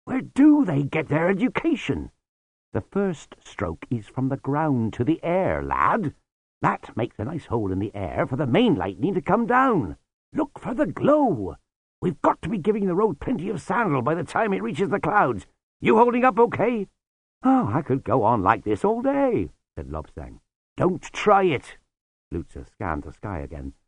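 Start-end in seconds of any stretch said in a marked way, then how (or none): 0.0-19.5 put-on gruff old sweeper, raised pitch. Lutzer voiced in dialogue. 20.8-21.8 put-on slow, dry old sweeper warning. Lutzer voiced in dialogue.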